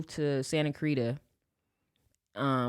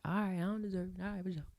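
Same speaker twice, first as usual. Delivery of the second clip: put-on meek kid; 10 dB quieter, faster than usual. Kid meekly accepting punishment.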